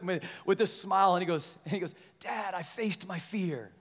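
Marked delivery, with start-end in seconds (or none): 2.2-3.7 son's quiet triumph. Retold or imitated. Winded son answers with smile.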